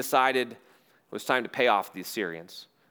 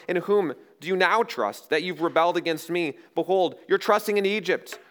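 higher, declaiming envoy's taunt; Rabshakeh; 4 semitones higher than usual. Acted. Assyrian official challenges Judah from outside the wall, raised declamatory voice. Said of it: "this booming voice from outside the city wall".

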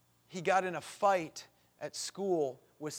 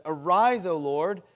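psalm cried aloud; crying out; 3 semitones higher, 8 dB louder than usual. Acted. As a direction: call out to heaven at full voice. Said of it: "He cries out to God".

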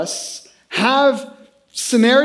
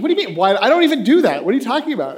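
indignant retort, pitched up high; mock defensive, higher; 4 semitones higher, faster than usual. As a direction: protest it like someone caught off guard.

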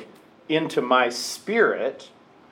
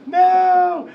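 emphatic no; 7 dB louder than usual. Pretend. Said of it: "it's just like".

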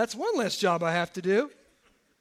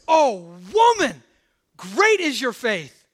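joyful exclaim; 5 dB louder, slower than usual. Acted. Preacher voicing Jesus praising the woman, louder. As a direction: burst out in delighted praise.

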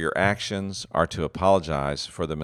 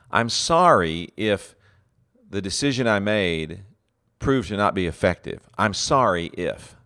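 mock insincere apology leaning on "sorry if"; a hollow, blame-shifting sorry; fake apology. Shown as a demonstration. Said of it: "a fake apology sounds like this".

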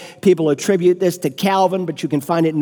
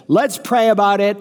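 pious brush-off; 2 semitones higher than usual. Retold or imitated. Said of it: "You piously raise your hand and say".

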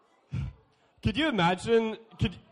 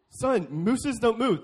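patient dad; 3 semitones higher, 5 dB louder, slower than usual. Retold or imitated. Dad correcting his son.

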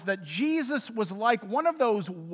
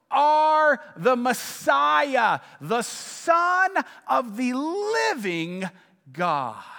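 bold confession; 3 semitones higher, much slower than usual. Acted. Peter proclaiming Jesus the Messiah, slow and ringing. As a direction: declare it like a revelation.

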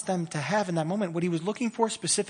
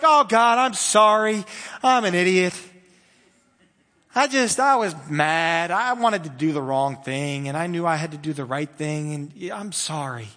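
sincere; 2 semitones lower than usual. Retold or imitated. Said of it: "I was sincere".

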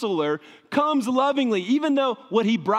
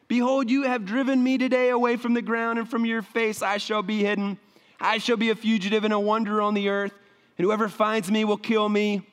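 Cain pleading; 3 semitones higher than usual. Acted. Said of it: "Cain said to the Lord".

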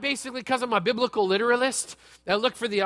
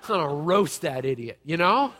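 laughing; 2 semitones lower than usual. Retold or imitated. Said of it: "Some of you are like".

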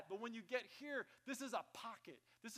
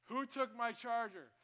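slow, loud, higher accusing demand; wife's demand; 5 semitones higher, 6 dB louder, slower than usual. Retold or imitated. Pastor imitating his wife hunting her charger, angry. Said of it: "if you hear my wife say".

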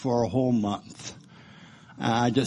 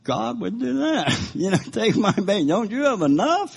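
angry at God; 8 semitones higher than usual. Retold or imitated. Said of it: "I'm thinking".

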